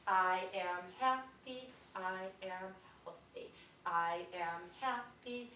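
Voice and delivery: slow, each syllable spaced out; slow, deliberate affirmation. Shown as a demonstration. Teacher leading a class in slow affirmation. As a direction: say it slowly, one syllable per finger. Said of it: "we're gonna say this together out loud".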